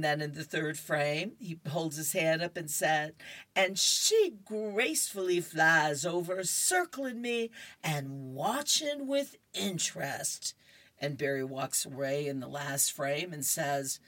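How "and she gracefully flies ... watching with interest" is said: boasting comic character. Acted.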